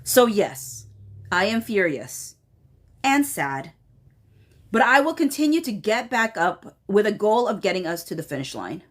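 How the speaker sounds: measured email reading, falling line ends; formal read-aloud. Retold or imitated. Reading an angry email to viewers, measured formal read-aloud. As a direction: read it out deliberately, pausing between phrases.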